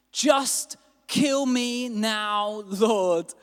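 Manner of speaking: drawn-out, slow plea with weight on kill; slow despairing plea. Acted. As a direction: beg to die, very slowly and heavily. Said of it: "he became very angry".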